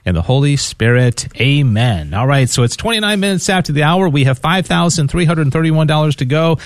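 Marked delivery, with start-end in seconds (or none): 0.0-2.1 prayer. Real, not acted. Host leading listeners in prayer, measured and reverent. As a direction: pray it steadily, reverent and measured.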